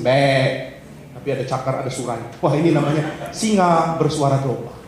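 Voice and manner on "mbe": sheep bleat. Acted. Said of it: "ngomongnya sih".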